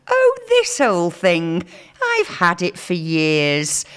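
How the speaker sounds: mock bashful Brit, slow, with a little laugh; modest brush-off. Radio host mocking British modesty, bashful and slow. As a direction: laugh off the compliment, taking it slow. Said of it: "your response should always be".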